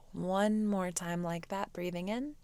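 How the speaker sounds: soft, unhurried meditation voice; guided meditation. Real, not acted. Teacher guides students to quiet the mind, soft meditation voice. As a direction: ease them into stillness with long pauses.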